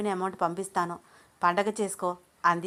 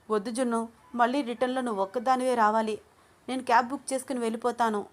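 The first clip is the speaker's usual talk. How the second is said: higher voice, hurrying through the last line; tearful refusal; 4 semitones higher than usual. Acted. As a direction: wave off help while crying. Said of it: "వస్తున్న కన్నీళ్లు తుడుచుకుంటూ".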